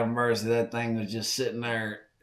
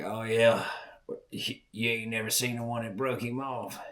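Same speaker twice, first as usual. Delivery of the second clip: put-on smug old hunter; 6 dB quieter than usual. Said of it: "he's like".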